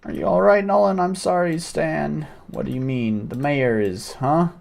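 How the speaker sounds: alarmed villager voice. Acted. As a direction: cry out to the mob, then turn worried.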